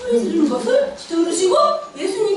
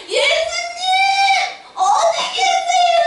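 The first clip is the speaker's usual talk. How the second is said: high, loud desperate shout; shouting louder; 9 semitones higher, slower than usual. Acted. 눈먼 바디메오가 예수님께 들리도록 더 크게 외침. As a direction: yell so he hears you. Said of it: "더 크게 소리 질러야지".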